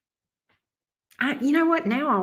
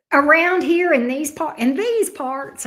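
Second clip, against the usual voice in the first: Southern accent; 5 semitones higher, 3 dB louder than usual. Real, not acted. Streamer chatting to viewers about local food, natural Southern accent. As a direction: let the Southern accent slip out on its own. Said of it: "I sound like I'm so Southern".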